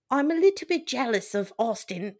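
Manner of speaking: lightly voiced British ghost, barely off the speaker's own voice; a hint of an old-timey ghost. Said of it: "I'm gonna always do Cam as British nineteenth century ghost".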